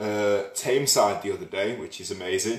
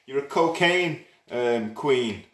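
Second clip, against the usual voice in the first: posh accent; 3 semitones higher, 4 dB louder, slower than usual. Shown as a demonstration. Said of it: "teach you to speak posh?".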